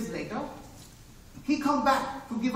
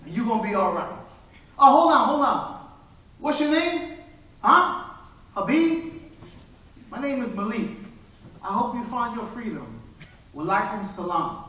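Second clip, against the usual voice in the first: hushed street hustler. Acted. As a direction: let him in on a secret. Malik parts kindly.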